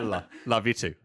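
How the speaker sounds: said through a laugh. Real, not acted. Laughing reply.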